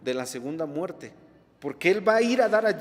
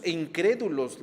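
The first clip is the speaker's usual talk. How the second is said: firm emphasis on INCRÉDULOS; emphatic stress. Real, not acted. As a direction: make "incrédulos" stand out from the list. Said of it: "recalco la palabra".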